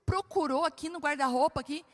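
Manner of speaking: wife doubting husband searched the wardrobe; incredulous check. Retold or imitated. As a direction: press him, unconvinced. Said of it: "eu falei".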